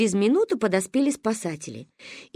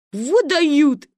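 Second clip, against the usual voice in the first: lightly voiced boy's exclamation; high, amused boy calling out; admiring heckle; 5 semitones higher, 4 dB louder than usual. A narrator's reading. Boy remarking on the girls walking past, admiring heckle. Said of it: "присвистнул какой-то мальчик".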